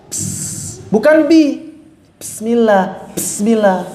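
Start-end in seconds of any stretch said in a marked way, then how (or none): 2.2-3.9 Bismillah swallowing the ba; dropped ba. Shown as a demonstration. Teacher imitating readers losing the ba. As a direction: say Bismillah with the b lost. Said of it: "yang jali bisa hilang".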